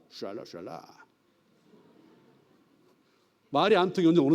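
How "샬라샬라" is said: mock gibberish. Gibberish foreign language.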